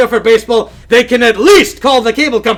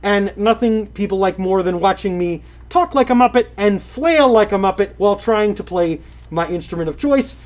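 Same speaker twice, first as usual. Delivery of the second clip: Kermit-style news voice; 2 semitones lower, 4 dB quieter than usual. Acted. Streamer announcing sad Twitch news to chat in his Muppet voice. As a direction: deliver the news like a Muppet anchor. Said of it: "deliver it in the style you're used to hearing".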